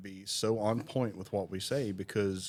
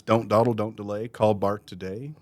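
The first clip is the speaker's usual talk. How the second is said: jingle-style slogan; 3 dB louder than usual. Acted. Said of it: "always is".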